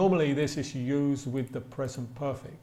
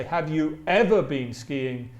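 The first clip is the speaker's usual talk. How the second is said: "ever" punched a little louder; stress on EVER; 4 dB louder than usual. Shown as a demonstration. Teacher showing what ever does, stress on "ever". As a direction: lean on "ever" in the question. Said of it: "is it emphasizes".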